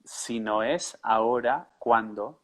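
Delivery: slow, word by word; staccato. Shown as a demonstration. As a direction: say it slowly for the learner. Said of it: "Can you say one word at a time?".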